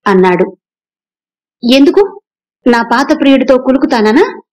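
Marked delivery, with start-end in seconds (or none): 1.7-4.4 higher, stinging question; sharp retort. Acted. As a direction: fire it back at him. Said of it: "తీవ్రంగా అడిగింది రూప".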